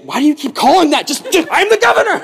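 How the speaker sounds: mock indignation climbing high; exasperated outburst. Governor objects to his servant's answer, exasperated. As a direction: protest it, rising to a pompous cry.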